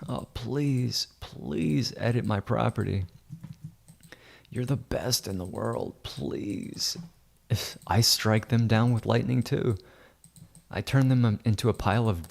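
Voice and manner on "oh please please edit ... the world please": imitated grovelling, lightly hammed-up; mock begging. Realtors beg him to edit property, mock pleading. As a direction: plead like a mocked client, fading softer at the end. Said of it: "Grovel and beg".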